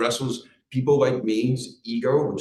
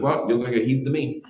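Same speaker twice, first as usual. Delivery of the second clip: higher, louder retold comeback; imitating the man's retort; 4 semitones higher, 6 dB louder than usual. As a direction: play his insistent reply. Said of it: "And he's like".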